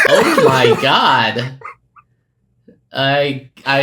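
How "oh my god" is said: slow, laughing oh my God; laughing disbelief. Real, not acted. Reacting to the comic panel.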